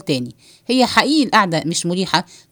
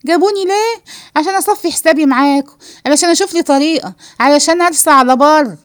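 raised pitch, building louder; indignant; 5 semitones higher, 4 dB louder than usual. Acted. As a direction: throw the question back, then build in volume. Indignant woman confronting two men. (استنكار بصوت بيعلى)

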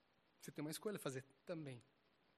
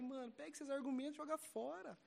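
higher, louder, slow stern command; retold stern rebuke; 10 semitones higher, 4 dB louder than usual. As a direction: order him to stop it. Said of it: "Eu falei".

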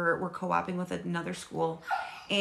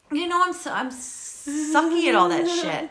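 laughing; 9 semitones higher, 5 dB louder than usual. Real, not acted. Admitting laughing.

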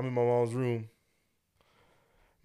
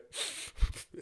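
imitated sniffling; 6 dB quieter than usual. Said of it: "And I'm just crying".

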